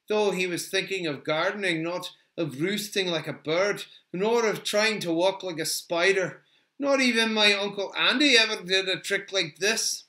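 a touch of homely indignation; rueful homespun character. Acted. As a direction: grumble lightly about an unfamiliar feat. Voices a character's thoughts.

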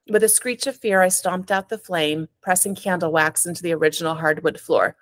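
an author reading her own novel aloud, steady and even; story narration. A narrator's reading. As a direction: tell it like a first-person story at a reading.

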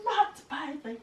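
high squeaky piglet voice; little pigs voice. Acted. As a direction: cry it out like tiny pigs. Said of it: "cried the pigs".

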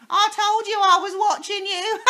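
put-on high, loud cackling old hag. A narrator's reading. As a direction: cackle with wicked triumph. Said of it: "cackled Missus Twit".

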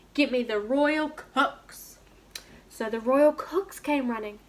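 lively storybook reading with voiced characters; reading to children. A narrator's reading. Teacher reading a picture book to her class online. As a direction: read it out to little ones, bright and clear.

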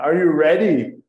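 rally the students; playful are you ready; hyped call. Shown as a demonstration. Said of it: "warming up the class".

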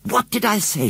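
triumphant shout at John. A narrator's reading. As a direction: crow it at her brother. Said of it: "she shouted".

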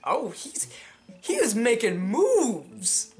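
slow, breathy gossip whisper; hushed slow stage whisper. Pretend. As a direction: lean in and whisper the juicy news. Gossiping whisper about a romance.

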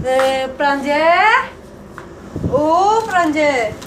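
slow drawn-out calling; sing-song calling. Acted. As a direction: draw the name out slowly. Seeking child again, calling.

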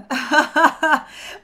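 high, loud burst of laughter; real amused laugh; bright laugh. Real, not acted. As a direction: laugh out openly. Laughs aloud.

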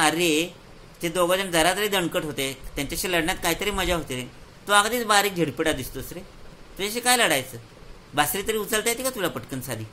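mocking taunt. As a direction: sneer down at the skinny boy, mildly. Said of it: "त्या राक्षसाला हसायला आलं".

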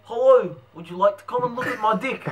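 hammed-up New Zealand accent; cheeky fake Kiwi accent. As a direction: put on broad New Zealand vowels. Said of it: "we're gonna Kiwi".

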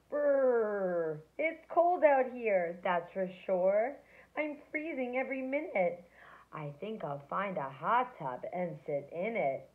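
cold, shivering snowman voice. Acted. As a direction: shiver through the words.

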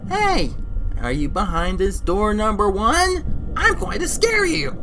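hammed-up scare threat; imitating Arthur. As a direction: taunt like a villain about to pounce. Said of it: "He's like".

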